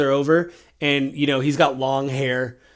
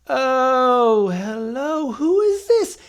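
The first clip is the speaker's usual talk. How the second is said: put-on high, surprised old-man voice; a startled ancient greeting, pitched up; waking mummy; 10 semitones higher, much slower than usual.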